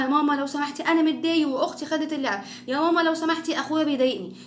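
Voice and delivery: put-on high little-kid voice, no shouting; polite child's complaint, voice kept in check; gentle polite request. Shown as a demonstration. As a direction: ask mum nicely, without yelling. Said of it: "بس بالراحة".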